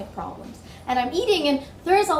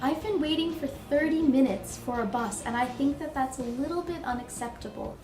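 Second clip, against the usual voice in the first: polite complaint. Shown as a demonstration. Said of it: "you need to complain nicely".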